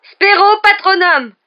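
slow, high, full-force spell; very loud chanted cry; shouted incantation. Acted. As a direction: hurl the spell with drawn-out words. Harry casts spell against dementors.

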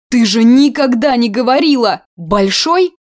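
put-on startled old woman; amazed reproach. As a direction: scold and marvel at once. Old aunt voiced, amazed.

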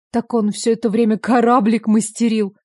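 usual speaking voice

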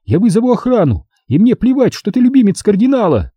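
high woman's voice, threatening; a high, hostile woman warning him; Sonya, menacing. A narrator's reading. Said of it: "прорычала она".

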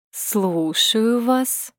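slow, drawn-out, mannered man's voice; mincing affected voice. A narrator's reading. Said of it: "жеманный голос Саши".

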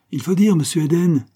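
high, loud call from above. A narrator's reading. Hornet editor calling down the stairs, shouting. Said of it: "lui cria d'en haut le rédacteur".

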